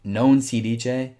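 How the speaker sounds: Non si dice said slowly, each syllable clear; Italian pronunciation demo. Shown as a demonstration. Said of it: "Italian example phrase".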